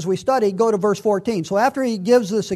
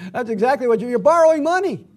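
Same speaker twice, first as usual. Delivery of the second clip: emphatic; 4 semitones higher, 4 dB louder, faster than usual. Real, not acted.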